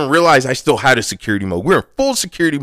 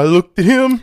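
dramatic retelling; 7 semitones higher than usual. Pretend. Dramatic staring contest retelling.

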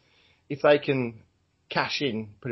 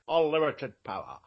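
Sean Connery impression. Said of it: "That was my Sean Connery".

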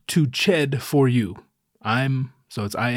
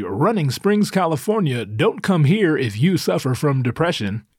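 mock town slogan; 3 semitones higher than usual. Jokes about his mountain town, mock slogan voice. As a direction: read it like a tourism tagline, a hint of pitchman. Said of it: "the slogan of the town should be".

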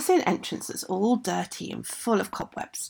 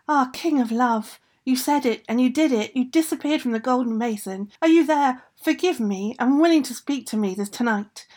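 pleading call, slightly raised pitch; 4 semitones higher than usual. Acted. Girl calls to the King of Love, pleading call. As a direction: call out to someone who may be listening.

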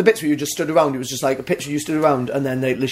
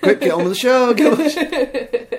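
high, laughing mock order to hurry; mock hurried exec; 8 semitones higher, slower than usual. Mocking the executives, a high laughing hurry-up. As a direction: rush them along, half laughing.

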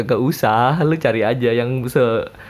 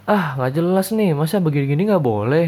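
mock complainer; 4 semitones higher than usual. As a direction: drag it out like an annoyed commenter. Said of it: "tiba-tiba ngomen". (nada protes mengejek)

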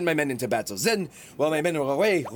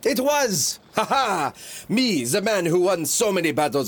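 triumphant; 4 semitones higher, 3 dB louder than usual. Acted. Napoleon boasting triumphantly.

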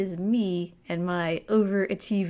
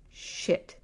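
a breathless whispered "Shit"; softer, unvoiced muttered curse; 5 dB quieter than usual. Real, not acted. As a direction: curse under your breath in dismay. Hearing her name called, dread.

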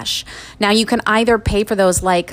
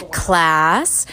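teacher voice. Pretend. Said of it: "I'm gonna get my teacher voice ready".

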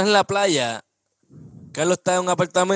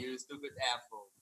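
Boston accent; 6 semitones lower, 22 dB quieter than usual. Shown as a demonstration. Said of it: "se me va un poco pa' Boston el acento".

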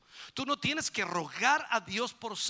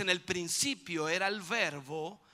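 solemn scripture reading; 4 semitones lower, slower than usual. Pretend. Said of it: "cuando dice".

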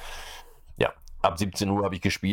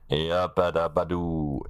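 slow, drawn-out cartoon catchphrase; lightly voiced cartoon caveman; Fred Flintstone catchphrase; slower than usual. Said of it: "Fred Feuerstein war das".

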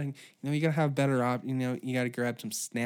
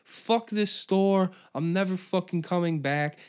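mock angry outburst, pitched up; mad; 6 semitones higher than usual. Angry shopper swears off the store, mad. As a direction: act out an irate customer storming off. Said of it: "I guess he was mad".

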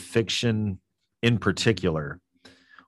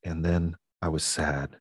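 quiet and low; 2 semitones lower, 6 dB quieter than usual. Shown as a demonstration. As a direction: drop to a soft low voice. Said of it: "going down very low".

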